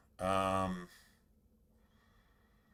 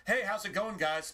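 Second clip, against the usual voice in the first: higher, bright hello-everyone voice; mock cheery greeting; 9 semitones higher than usual. Streamer mimics the banned viewer's innocent hello, higher and cheery. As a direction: chirp it like an innocent newcomer.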